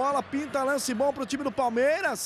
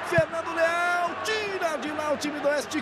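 raised, higher excited commentary; excited call; 5 semitones higher than usual. Real, not acted. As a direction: call out the save with a rush. Save called live.

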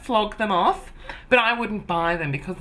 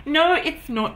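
perky objection; 7 semitones higher, 3 dB louder than usual. Acted. Friend-self cheerfully objects.

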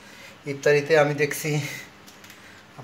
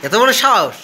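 mock outrage; 4 semitones higher than usual. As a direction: pretend to be shocked by the toddler's threat. Mock outrage at toddler threat.

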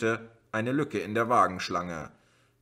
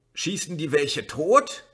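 higher, louder, slow frightened call; calling over shoulder; 7 semitones higher, 5 dB louder than usual. A narrator's reading. Boy Uli calling back to his sister. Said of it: "rief Uli über die Schulter zurück".

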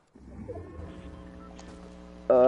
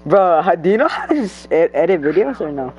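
loud asking; 3 semitones higher, 7 dB louder than usual. Real, not acted. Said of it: "You sound gay as fuck".

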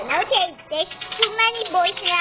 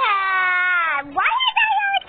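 frustrated cry; 2 semitones lower, slower than usual. Real, not acted. Frustrated at failing level.

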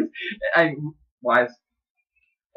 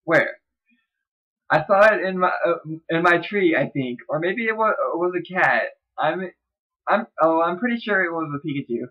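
put-on girl's voice; 3 semitones higher than usual. Shown as a demonstration. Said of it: "I'm gonna do this in a girl's voice".

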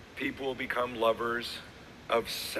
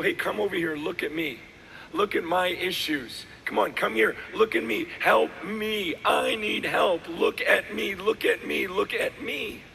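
mock plea for attention, building higher and more insistent; needy pleading; 4 semitones higher than usual. Churchgoer pulling people over to see their problems, mock needy pleading. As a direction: act out begging everyone to look.

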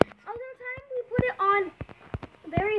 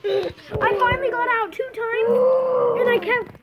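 relieved; 4 semitones higher, 5 dB louder, slower than usual. Real, not acted. Relief at escaping.

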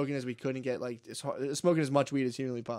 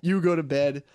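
high start, louder final order; exasperated coach; 4 semitones higher, 4 dB louder than usual. Retold or imitated. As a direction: play the coach sending kids off. Acts out coach sending everyone away.

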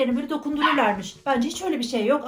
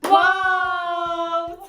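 excited wow; 5 semitones higher, 3 dB louder than usual. Real, not acted. New product revealed.

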